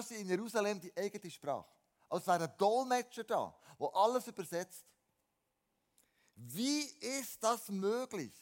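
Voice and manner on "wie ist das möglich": slow, high, astonished question; stunned crowd asking slowly; beside themselves. Acted. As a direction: gasp out the disbelief, drawn out. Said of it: "riefen sie außer sich".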